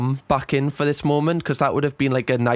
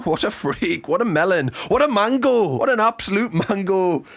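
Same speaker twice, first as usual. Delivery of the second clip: soundboard catchphrases; 5 semitones higher than usual. Real, not acted. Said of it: "I'm like a soundboard right now".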